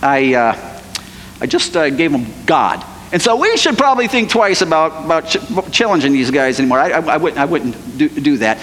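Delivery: low, halting, embarrassed confession; sheepish stammer. Pretend. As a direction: squirm through bad news. Jonah sheepish confession to king.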